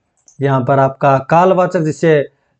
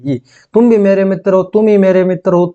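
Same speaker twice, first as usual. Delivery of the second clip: तुम भी, तुम ही — raised, emphatic; stress on भी and he; 3 semitones higher than usual. Shown as a demonstration. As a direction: punch भी then he to show emphasis. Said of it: "जोर देने के लिए".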